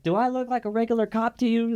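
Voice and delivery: a hint of a tough undercover cop sneering; lightly voiced cop, smug and cocky. Undercover cop to the pulled-over dealer, smug and lightly voiced. Retold cop confronting him.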